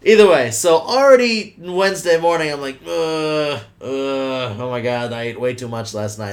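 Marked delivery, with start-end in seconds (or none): 2.9-6.3 low, subdued groan of regret; mock groan, sinking softer as it goes; overfull groaning. Recalling the morning after a huge steak dinner, overfull groaning.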